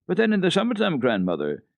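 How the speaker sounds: put-on high, pleading little girl; an anxious child searching for hope. A narrator's reading. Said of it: "still anxiously seeking some way".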